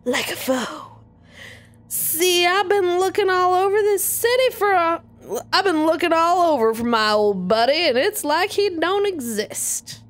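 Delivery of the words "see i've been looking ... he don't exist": Southern drawl. Acted. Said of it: "he's Southern".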